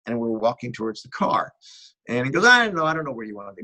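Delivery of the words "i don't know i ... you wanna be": lightly imitated French accent, quick and higher; hint of French accent, hurried. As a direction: quote him with a touch of French. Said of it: "but in his French accent".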